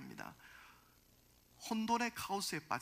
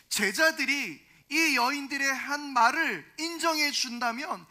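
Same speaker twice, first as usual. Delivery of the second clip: raised, loud preacher's voice; forceful sermon delivery; emphatic preaching; 5 semitones higher, 9 dB louder than usual. Real, not acted. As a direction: drive the point home from the pulpit, loud and higher. Preacher drives the explanation home.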